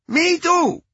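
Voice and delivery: put-on high Cuban-accented woman. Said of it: "A woman with a thick Cuban accent".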